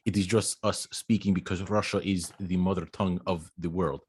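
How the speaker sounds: light put-on Russian accent; hint of a Russian accent, deadpan. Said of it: "could you give us some of that Russian accent?".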